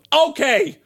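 squeaky cheerful machine; Alexa voice. Retold or imitated. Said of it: "Und sie so".

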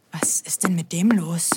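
put-on puzzled whisper to the kids; whispered aside. Mira wonders to the children, whispered.

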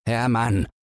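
a mild plea; pleading. Acted. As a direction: gently beg him to stop. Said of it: "bittet der andere". (Bang bittet Hermann leise)

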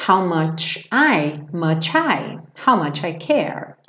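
How much I said slowly, linked "muchI"; teacher drills how much I slowly. Shown as a demonstration. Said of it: "depende do que vem depois".

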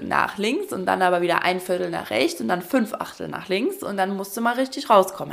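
ordinary delivery

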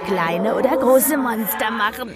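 slow, eerie demonic voice, rising to a shout; a sinister unseen voice savouring the cruelty, slow and strange; menacing demon voice. Acted. Disembodied voice taunting the host from behind, slow and menacing. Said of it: "lacht eine Stimme hinter mir".

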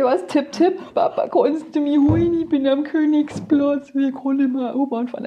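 high, slow plea to Papa from a payphone; a drunk daughter begging her dad for a lift. Retold or imitated. High, slow, pleading drunk daughter. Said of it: "sag ich".

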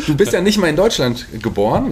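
teasing line said through a laugh; laughing as she teases the guest about his roots. Real, not acted. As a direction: chuckle through the words while needling him.

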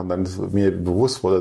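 ordinary talk

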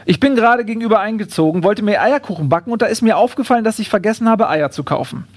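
lightly voiced, over-polite kangaroo explaining itself. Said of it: "sagt das Känguru".

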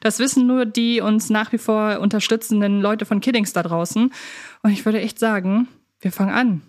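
usual speaking voice

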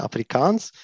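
"Afrikaans" said /afʀikans/ with long final a and s, rising; Afrikaans said right. Shown as a demonstration. Correcting host on language name, "Afrikaans" said carefully. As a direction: say "Afrikaans" clearly, not "Afrikanisch". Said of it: "aber das ist nicht Afrikanisch".

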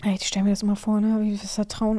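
whispered, still shaken; real whisper; hushed whisper. Real, not acted. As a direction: speak it under the breath, moved. Moved after reading the letter.

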